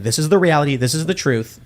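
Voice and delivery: understated, matter-of-fact delivery; mildly calm imitation of a speaker; calm quote. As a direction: state it evenly, without any heat. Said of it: "He's very calmly saying".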